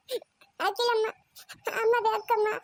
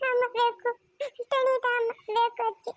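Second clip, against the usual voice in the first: crying. Acted. Child crying for mother.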